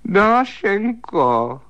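high, slow wailing call of her name; long rising plaintive cry. A narrator's reading. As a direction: wail her name into the dark. Calls into the dark bedroom.

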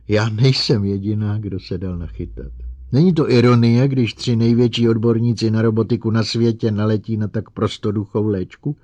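hysterical outburst. Acted. Calvin laughing hysterically.

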